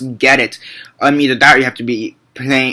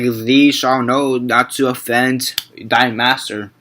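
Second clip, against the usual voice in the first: slow, lightly imitated archaic recital; a hint of old-play delivery; Old English speech; much slower than usual. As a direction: measure it out like a Shakespearean line. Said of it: "if I could talk like that".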